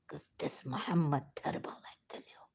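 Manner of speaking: real near-whisper, voice giving out; overcome, words fading to a whisper; choked with emotion. Real, not acted. Shia speaker grieving over the tragedy, choked whisper. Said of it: "I'm getting emotional".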